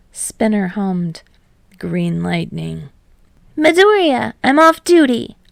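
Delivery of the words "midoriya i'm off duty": higher, louder playful villain. Acted. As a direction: tease him, off duty. Villain voice at card game.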